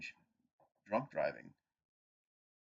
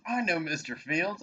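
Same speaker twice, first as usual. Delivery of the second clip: imitating the cop; 9 semitones higher, 6 dB louder than usual. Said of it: "He goes".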